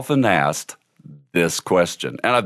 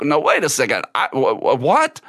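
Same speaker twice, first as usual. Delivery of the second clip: puzzled; 3 semitones higher, faster than usual. Retold or imitated. Friend caught off guard by her thanks, puzzled stammer. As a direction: imitate a baffled man stumbling over his words. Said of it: "left puzzling".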